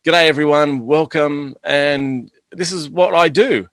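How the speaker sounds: live stream host. Retold or imitated. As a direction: greet viewers like a live broadcaster. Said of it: "It's like".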